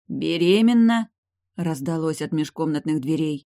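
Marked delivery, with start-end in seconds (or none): 0.1-1.1 stunned echo. Acted. Kairon overhears from doorway.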